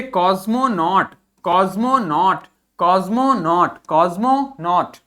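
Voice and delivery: कॉस्मोनॉट said slowly with a z sound, कॉज़्मोनॉट; slow model pronunciation. Shown as a demonstration. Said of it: "क्या पढ़ेंगे?". (धीमा उच्चारण)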